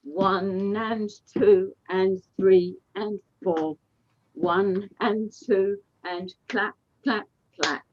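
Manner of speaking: slow, even counting call; slow dance count. Shown as a demonstration.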